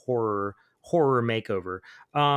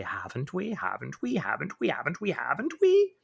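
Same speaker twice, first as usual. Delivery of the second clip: taunting demons; 4 semitones higher than usual. Acted.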